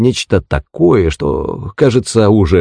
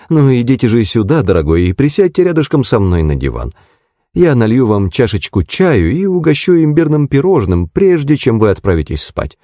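lightly voiced, higher-pitched hostess; hospitable, coaxing landlady; 5 semitones higher than usual. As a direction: coax the guest gently to tea. (радушная хозяйка, слегка уговаривает)

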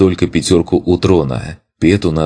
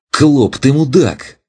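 startled curse; 10 semitones higher, slower than usual. Acted. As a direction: blurt it out after a fright. Startled hero swears at friend.

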